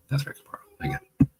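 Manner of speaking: breathy conspiratorial whisper, voiceless; knowing whisper. Real, not acted. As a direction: whisper "That's right, Kapar" as a wry aside.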